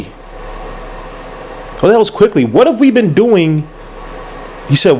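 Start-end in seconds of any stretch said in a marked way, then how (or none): 0.0-2.4 slow, breathless whisper of disbelief; disbelieving whisper. Real, not acted. Fan to viewers, whispered disbelief at the picks. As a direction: drag it out in a stunned whisper.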